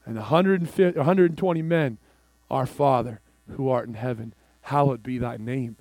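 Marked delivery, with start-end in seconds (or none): 2.5-5.8 hushed prayer. Retold or imitated. Hundred and twenty men praying.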